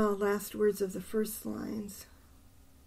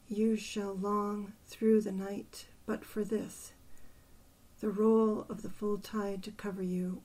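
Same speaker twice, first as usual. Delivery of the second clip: measured verse reading with strong phrase openings that fall away; deliberate poetry recital, line endings softened; poem reading. Acted. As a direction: read the poem aloud, pausing at each line. Reads the poem aloud.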